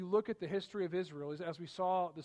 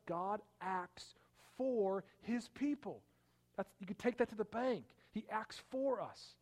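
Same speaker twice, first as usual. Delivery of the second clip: higher, slow, emphatic assurance; rising conviction; 4 semitones higher than usual. Real, not acted. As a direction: lift it up with certainty. Preacher's rising affirmation.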